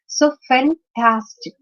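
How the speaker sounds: fantastic, with the middle syllable tas slowly punched; stress on tas. Shown as a demonstration. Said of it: "because it's on the second syllable".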